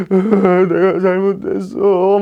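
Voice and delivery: high, drawn-out mock sobbing; hammed-up crying of an acting student; acted bawling. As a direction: wail the words slowly through fake tears. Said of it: "막 울면서".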